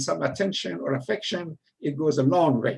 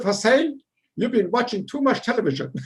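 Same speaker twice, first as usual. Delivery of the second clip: amused officer; 5 semitones higher, 3 dB louder than usual. Retold or imitated. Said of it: "So the guy laughed".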